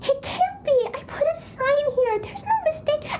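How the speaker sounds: high, insistent protest; can't believe it's gone; upset disbelief. Acted. Treasure missing, child protests.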